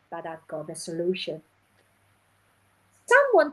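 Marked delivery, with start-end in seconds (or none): 0.1-1.4 quiet reassurance. Retold or imitated. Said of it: "and then you say".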